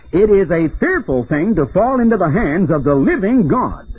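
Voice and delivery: declaimed scripture. Acted. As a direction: proclaim it as a solemn warning. Quotes scripture in preaching voice.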